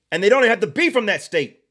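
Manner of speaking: usual speaking voice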